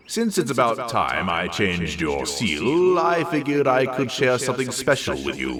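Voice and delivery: out of breath from lifting; huffing. Acted. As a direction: puff the words out, back aching. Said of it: "he huffed".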